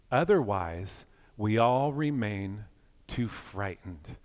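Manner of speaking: slow, measured poem recital; poetry reading. Acted. Reads a mystic poem aloud.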